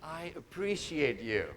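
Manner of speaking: mean every word of I appreciate you; sincere. Shown as a demonstration. Speaker showing the audience how to say it sincerely. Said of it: "This is how you'll have to say it".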